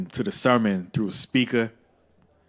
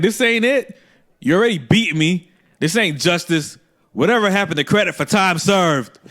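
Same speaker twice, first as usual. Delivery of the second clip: mock indignant pleading; 6 semitones higher than usual. Kid protesting grandma's beating as unjust, indignant plea. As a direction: argue your case like a wronged prisoner.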